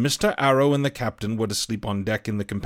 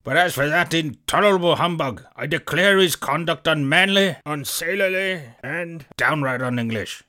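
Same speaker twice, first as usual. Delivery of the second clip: squire raised in huffy outrage; indignant squire; 4 semitones higher than usual. A narrator's reading. Squire fumes to the doctor about the captain, indignant. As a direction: spit out his scorn for the humbug. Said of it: "cried the squire".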